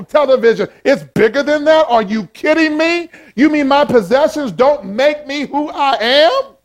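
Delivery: a hint of a stunned rich man; mock incredulous rich man. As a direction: play the shocked materialist, hammed up. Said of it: "That's what Jesus said".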